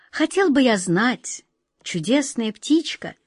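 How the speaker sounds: slow, careful, restrained asking; holding back trembling. Acted. Wizard asking the cuckoo, suppressing a tremble. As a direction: keep the agitation under control. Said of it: "с трудом сдерживая дрожь в голосе".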